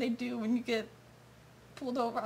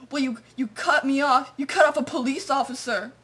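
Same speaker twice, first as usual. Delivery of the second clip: mock cop attitude; 4 dB louder than usual. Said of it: "It was all attitude".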